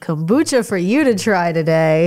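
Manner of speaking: blocked-nose voice; talking through stuffed sinuses; stuffy nose. Real, not acted. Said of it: "My nose is stuffed".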